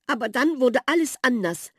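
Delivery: sighing. A narrator's reading. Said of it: "seufzte Maus Miller".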